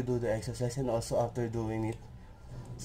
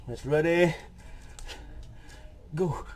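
calling out; 2 semitones higher than usual. Real, not acted. Workout host calling next set.

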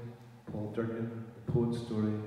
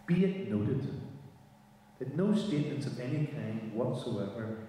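measured, deliberate poetry reading; poem reading. Acted. Reads the poem aloud.

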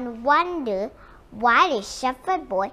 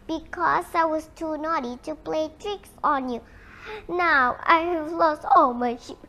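tearful regret; 2 semitones higher than usual. Acted. Boy tearfully regrets his pranks.

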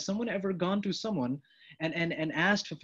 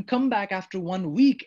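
louder, dismissive brush-off; curt dismissal; 2 semitones higher, 5 dB louder than usual. Acted. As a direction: send them away curtly. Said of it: "I've said to him".

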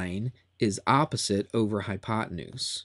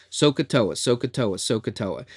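say it fast. Shown as a demonstration. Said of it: "Say it fast a bunch of times".

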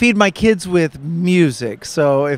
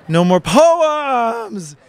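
high, slow shout of No more poems!; yelled title; 8 semitones higher, much slower than usual. Shown as a demonstration. Author yells his book title for the audience. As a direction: belt the title out slowly. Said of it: "I always yell".

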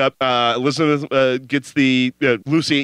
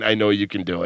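ominous; 5 semitones lower than usual. Retold or imitated. Lead robber to the mom at the safe, low and ominous. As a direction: say it like a veiled threat. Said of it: "but ominously saying".

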